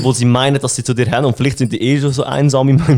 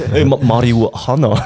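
mock stoner; much slower than usual. Stoner voice continued, slow.

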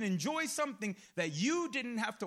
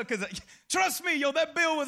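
ordinary delivery

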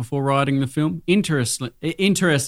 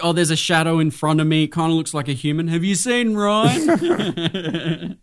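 put-on blind drunk voice; 3 semitones higher than usual. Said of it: "You're probably like".

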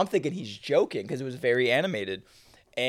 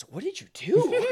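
laughing quote. Retold or imitated. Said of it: "even Yabo goes".

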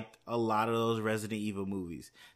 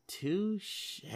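high playful touche; 10 semitones higher, 3 dB quieter than usual. Real, not acted. Playful repeated touche, higher.

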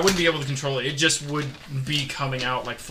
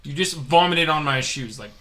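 retold pissed-off complaint. Storyteller retelling shoving the drunk guy, mildly pissed off. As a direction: confront him with understated irritation. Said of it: "I'm, like, all pissed off".

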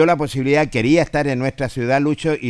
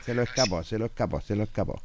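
much softer, under the breath; quiet repeated aside, trailing lower; 3 semitones lower, 10 dB quieter, much faster than usual. Real, not acted. Aside about a missed clip.

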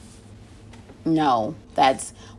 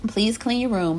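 higher-pitched, sweet request; sweet and nice; 4 semitones higher than usual. Acted. Parent asking the kids yet another time, sweetly. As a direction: ask nicely, pitch lifted. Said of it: "you say it sweetly and nicely".

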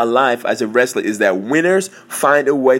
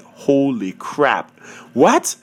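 shocked; much slower than usual. Retold or imitated. Wrestler hearing the tournament is tomorrow, shocked. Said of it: "how shocked I was".

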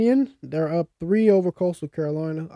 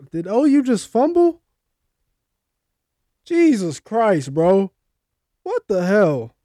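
louder, higher dismayed outburst; exasperated disbelief; 4 semitones higher, 7 dB louder, slower than usual. Real, not acted. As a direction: react in real disbelief at a blunder. Reacts to a fumble during game.

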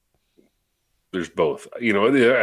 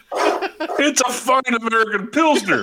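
mock snobby; 8 semitones higher, slower than usual. Mock-proud defence of the cheap beer.

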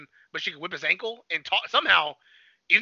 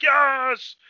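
lightly hammed-up villain triumph, higher and louder; raised, exultant mock cry; mock exultation; 7 semitones higher, 5 dB louder than usual. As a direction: imitate a villain basking in power.

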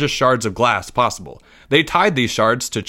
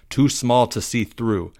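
usual speaking voice

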